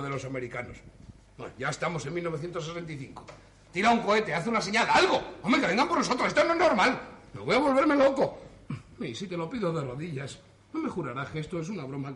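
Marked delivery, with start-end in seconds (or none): 3.7-8.4 loud, high, half-laughing panic; losing it, shouting for rescue; near-hysterical plea to be rescued; panicked outburst. Acted. Panics at being stranded in time.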